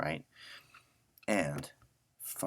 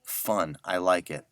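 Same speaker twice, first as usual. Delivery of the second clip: delighted; 8 dB louder, slower than usual. Real, not acted. Delighted by the projector sound.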